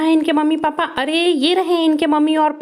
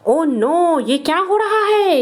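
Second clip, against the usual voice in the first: mock alarm; 4 semitones higher than usual. Mock alarm at toy scene.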